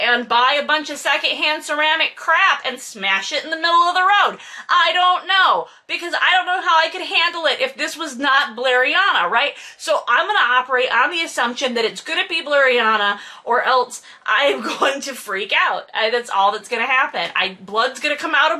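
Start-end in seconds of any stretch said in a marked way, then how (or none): none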